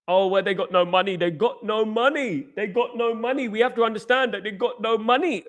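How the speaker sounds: high, whiny mock of a fan; mocking gullible fan. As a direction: imitate a naive fan parroting excuses. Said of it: "Have these people actually met".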